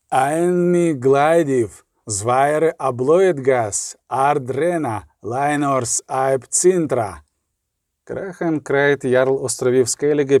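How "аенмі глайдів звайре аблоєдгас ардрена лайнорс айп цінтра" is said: very slow, measured foreign chant; solemn oath. Acted. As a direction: swear fealty word by word. Jarl swears an oath. (урочиста клятва)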